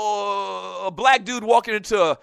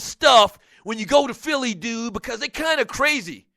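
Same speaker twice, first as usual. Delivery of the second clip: lightly voiced caller, friendly but warning; a hint of a laid-back dude warning his buddy; callers' warning voice; 3 semitones higher than usual. Fan on the phone warning the host, lightly voiced. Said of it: "doing my Bob for Martin's voice".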